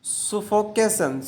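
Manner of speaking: suffocation stretched very slowly, syllable by syllable; very slow, careful pronunciation for learners; drawn-out demo word. Shown as a demonstration. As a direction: spell suffocation out with your voice. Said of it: "घुटन को हम English में बोलते हैं".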